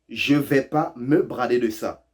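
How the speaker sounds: each word laid out slowly for learners; slow, careful. Shown as a demonstration. Teacher to learners, slowly spelling out the phrase. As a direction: spell it out slowly so they catch the dropped words. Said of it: "Ils ont tout court oublié le «je ne vais pas»".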